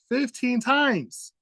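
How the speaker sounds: Fifteen times slow, drawn out, each word leaned on; stress on fifteen times. Real, not acted. Commentator stressing how many warnings he ignored, slow and heavy. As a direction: spell out Fifteen times slowly for weight.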